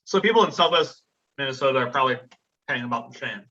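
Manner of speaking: talking around a piece of ice; ice in mouth. Real, not acted. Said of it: "I have a piece of ice in my mouth".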